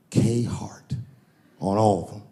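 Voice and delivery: breathy hushed whisper; awed whisper. Real, not acted. The speaker reads the jersey name, awed whisper. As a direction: whisper it in awe.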